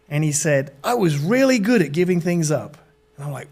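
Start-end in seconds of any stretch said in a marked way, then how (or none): 0.8-2.8 lightly put-on American surfer voice; casual mock-American accent. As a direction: imitate an American dude recounting his past. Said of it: "this is my American accent".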